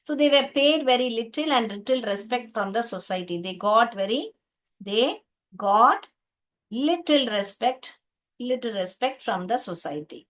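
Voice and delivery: slow, word by word, with pauses; slow reading. Shown as a demonstration. Teacher rereading the sentence slowly for pupils. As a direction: read it out haltingly to the class. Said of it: "teacher rereads line slowly".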